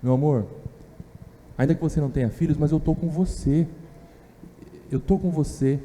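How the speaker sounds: soft, tender reassurance to a wife; a husband gently consoling his childless wife. Retold or imitated. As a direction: comfort her quietly, close to her. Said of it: "Eucana tá tentando consolá-la".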